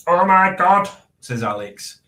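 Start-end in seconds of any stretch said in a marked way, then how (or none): 0.1-0.9 loud, high gushing oh my God; Alex's "oh my God". Retold or imitated. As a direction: gush it like Alex. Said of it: "'cause that's how she talks".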